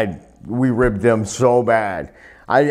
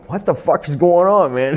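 retold bafflement; 6 semitones higher than usual. Retold shock at dark headlights.

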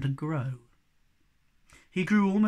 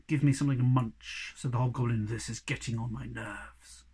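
low and fed up, like a tired giant; grumpy hobgoblin; 6 semitones lower than usual. Acted.

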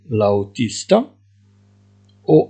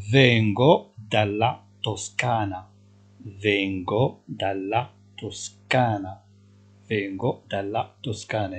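each syllable drawn out, slowly; slow dictation; 2 semitones lower, 4 dB quieter, much slower than usual. Shown as a demonstration. Teacher to Moroccan students, slowly dictating Italian. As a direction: spell it out slowly for learners. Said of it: "teacher dictating passenger answer".

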